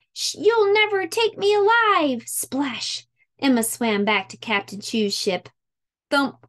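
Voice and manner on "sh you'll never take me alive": pirate defiance. A narrator's reading. Pirate girl defies capture.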